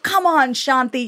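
high, sharp mock yell at himself after a missed shot; frustrated self-scolding. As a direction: snap at yourself like a dad who just missed. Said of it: "he'd be like".

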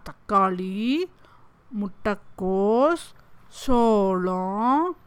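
slow quiz-style listing. Shown as a demonstration. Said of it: "எத்தனை கரிகாய் இதுல வந்தது சொல்லலாமா?".

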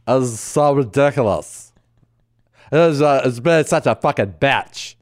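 mock dramatic girl-speak; imitation of a complaining sister; mimicking sisters. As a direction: gossip in exaggerated sister vowels. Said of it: "I said it like my sisters".

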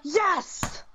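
high celebrating yell; real fan's yell; exultant shout. Real, not acted. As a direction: join in the cheer. Celebrating a tying goal.

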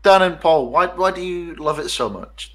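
pointed, slightly confrontational question; unintentionally aggressive. Real, not acted. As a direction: put them on the spot a little. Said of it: "That sounded more aggressive than I meant".

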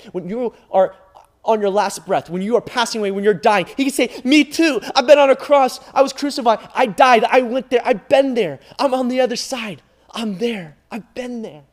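loud, high, rising preacher's cry; preaching at full force. Acted. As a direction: build to a full-throated preaching climax. Preaching crescendo about Jesus' suffering.

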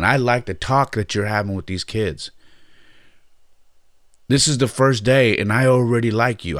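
high, loud, enthusiastic praise that eases off toward the end; gushing mom. Retold or imitated. Mom tells the new coach she likes what she sees, high and eager. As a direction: play the thrilled mom pouring out compliments.

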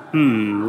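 drawn-out thoughtful hum; thinking hmm. Real, not acted. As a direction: hmm while searching for an idea. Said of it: "let me think".

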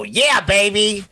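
hammed-up British "yeah, baby" voice; mock British catchphrase. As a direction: do a playful British catchphrase, stretched out. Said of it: "do they go".

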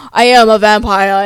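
a lightly put-on Dracula-style vampire accent. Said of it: "Was that a good accent?".

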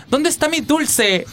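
high, slow child voice imitation; imitated child. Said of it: "hablan así como".

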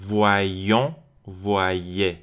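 Voyons, voyez with a held, doubled y glide; doubled y sound. Shown as a demonstration. Teacher showing first and second plural, doubled y in "Voyons, voyez". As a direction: lean on the y in "Voyons" and "voyez", vwa-yyon, vwa-yyé. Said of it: "یه یه تشدید دار".

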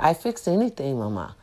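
a hint of a boastful repairman; proud handyman. Repairman listing what he can fix, lightly voiced and soft. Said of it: "He said".

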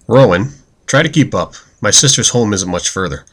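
calling ahead to a lagging friend. Acted. Sama calls back to friend.

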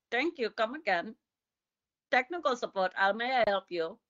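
stock call-centre Indian accent, lightly done; attempted Indian accent. Shown as a demonstration. Showing the one Indian accent they can manage, attempted Indian accent. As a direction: put on a rough Indian accent. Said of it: "like, an Indian one here and there".

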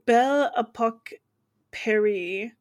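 careful French pronunciation of the place names; attempted French accent. Real, not acted. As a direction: try it in French, word by word. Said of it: "Oh, she's French".

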